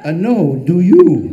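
loud amused comeback; laughing reply. Retold or imitated. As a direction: toss the question back through laughter.

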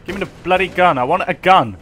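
hammed-up posh British demand for a gun; very British accent. Gamer demanding a gun from Rebecca, in mock British accent. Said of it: "In a very British accent".

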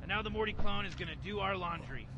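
lightly voiced cynical mad scientist, smug and rambling; Rick impression. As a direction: play the bored genius grandpa explaining his scheme. Gamer voicing Rick throughout.

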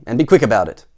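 loud, impatient order; Mister Grumpy. A narrator's reading. Grumpy customer hurries the butcher, snapping. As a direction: snap it out forcefully. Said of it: "snapped Mister Grumpy".

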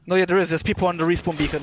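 loud urgent warning; excited callout. Real, not acted. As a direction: alert the squad fast. Spotting enemies, alerting team.

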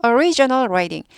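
slow, clear reading of "Original writing"; slow model reading. Shown as a demonstration. Teacher reading the phrase slowly to the class. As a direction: read it out slowly for students. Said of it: "teacher models the phrase".

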